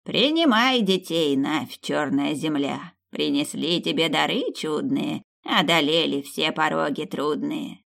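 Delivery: slow chanted spell; slow ritual chant; incantation. Acted. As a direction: intone it like an old witch's charm. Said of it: "сказала старуха".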